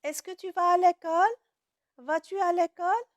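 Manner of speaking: high, fast rising questions; question demo. Shown as a demonstration. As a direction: ask it brightly like a real question. (question posée avec montée aiguë)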